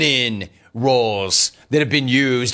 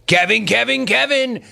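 sing-song call; 9 semitones higher than usual. Acted. Host repeats the Kevin call.

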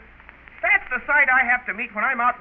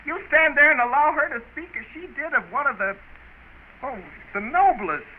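indignant; 3 semitones higher than usual. Acted. Brother outraged at insult to beloved.

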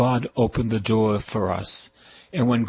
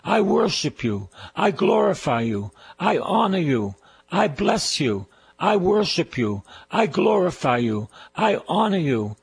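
raised, ringing call to praise the Lord; praise-leading preacher; 5 semitones higher than usual. Acted. Preacher leading listeners in praise, raised ringing voice. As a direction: lead the people in blessing God, higher and fuller.

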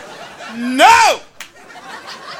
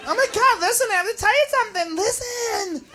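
tipsy confiding; 4 semitones higher, 8 dB quieter than usual. Acted. Tipsy girl confiding a secret.

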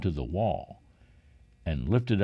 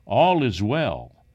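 slow, loud and higher, calling to the king; called out; 5 semitones higher, 6 dB louder, slower than usual. A narrator's reading. Ahimaaz calls out to the king, loud and slow. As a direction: announce it from a distance, drawn out. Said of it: "Ahimaaz called and said unto the king".

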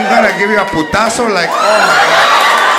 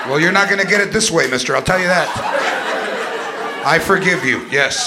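mock calm parent; 4 semitones lower, 3 dB quieter than usual. Calm modern parent voiced.

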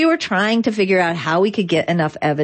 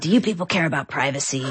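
quick, raspy mock New York voice, half-laughing; imitating raspy New Yorker; 3 dB quieter, faster than usual. A stranger at the EFF door asks about privacy, quick mock raspy New York voice. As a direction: rasp it out like a gruff Long Island stranger at the door, lightly done. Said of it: "he has this raspy voice".

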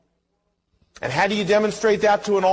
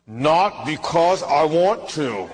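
grudging aside; 3 semitones lower, slower than usual. Retold or imitated. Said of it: "I felt like saying".

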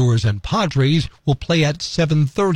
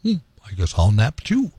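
Argos; faster than usual. Acted. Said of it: "Argos says".

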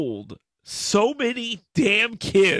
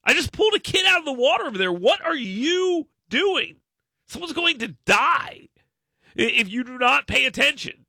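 higher scolding rant; dressing down lifeguards; 5 semitones higher than usual. Retold or imitated. Retelling scolding a lifeguard who missed a kid, mock anger. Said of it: "and be like".

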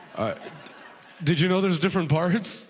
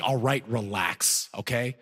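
soft slow calming of the agent; 5 semitones lower, 3 dB quieter, slower than usual. Retold or imitated. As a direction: ease the tension, slow and soft. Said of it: "I was like".

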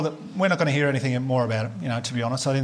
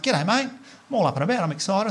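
excited; 6 semitones higher than usual. Retold or imitated. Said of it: "I was like".

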